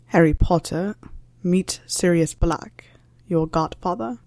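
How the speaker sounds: dry, hushed, almost whispered; dry introduction. Acted. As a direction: introduce them flatly under your breath. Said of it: "Severus's voice was dry".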